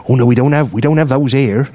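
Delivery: lightly put-on Maidstone local accent; Maidstone man's accent. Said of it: "this was genuinely his accent".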